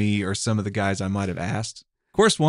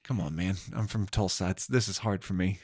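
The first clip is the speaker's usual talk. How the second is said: retold plea; 6 dB quieter than usual. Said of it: "And I'm like".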